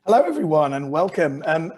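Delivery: hoarse, croaky throat. Real, not acted. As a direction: speak through a croaky voice. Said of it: "apologies for my croaky voice".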